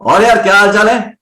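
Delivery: loud, easy call with the voice thrown far; loud, low effort. Shown as a demonstration. Teacher demonstrating high volume to the class, loud and relaxed. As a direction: project it across the room without pushing. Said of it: "volume बहुत high है लेकिन pitch बिल्कुल भी नहीं है".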